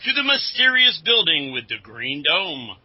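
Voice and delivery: dramatic serial voice-over; announcer narration. Acted. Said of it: "announcer, you wanna quit padding your part".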